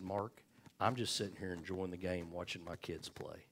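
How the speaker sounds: softly voiced, easygoing Lord; understated, soft voice of God; the Lord's gentle reply. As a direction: answer quietly, in no hurry to judge. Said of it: "I heard the Lord chuckle at me".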